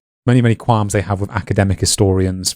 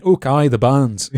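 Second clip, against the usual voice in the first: mock Scottish accent; 3 semitones higher, slower than usual. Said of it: "I can imagine someone saying".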